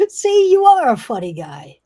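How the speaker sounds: loud, high, squealing imp; high-pitched gleeful imp outburst; laughing imp. Acted. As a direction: crow it loudly through laughter. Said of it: "Starts laughing".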